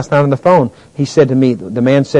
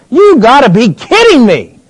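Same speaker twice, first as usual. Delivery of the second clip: mock parent refusal; 12 semitones higher, 9 dB louder, slower than usual. Parent refusing child's request.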